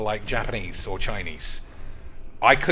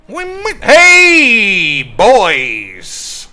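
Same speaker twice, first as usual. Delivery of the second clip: excited shout; 9 semitones higher, 14 dB louder, much slower than usual. Real, not acted. Streamer calling out to his viewers, excited shout. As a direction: yell it to the whole crew. Hyping viewers after a win.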